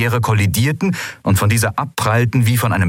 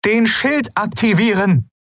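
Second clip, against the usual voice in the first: panicked order. Acted. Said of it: "Panik leuchtete in ihren Bronzeaugen".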